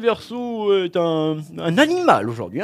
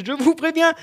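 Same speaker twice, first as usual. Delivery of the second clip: louder, higher final warning; mock stern warning; 10 semitones higher, 6 dB louder than usual. Astrologer warning the sign one last time, loud and mock stern.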